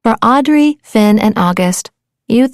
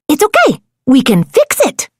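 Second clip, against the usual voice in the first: reassuring friend; 3 semitones higher than usual. Acted. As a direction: comfort a sad friend. Crab reassures Terrence.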